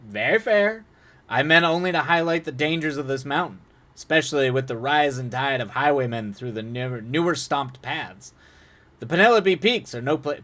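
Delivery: smooth, polite menace; suave man. Acted. Suave character voice.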